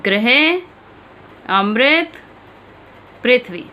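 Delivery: ृ said as री in "गृह अमृत पृथ्वी"; ri pronunciation demo. Shown as a demonstration. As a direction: repeat the three words carefully for the class. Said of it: "एक बार उच्चारण फिर देखें".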